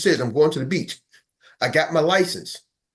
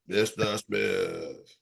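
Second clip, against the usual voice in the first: very low, very slow and soft; mock cold call, low and drawn out; 10 semitones lower, 8 dB quieter, much slower than usual. Shown as a demonstration. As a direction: drawl it out deep and quiet. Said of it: "you start changing up".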